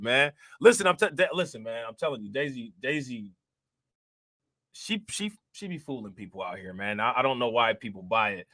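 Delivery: usual speaking voice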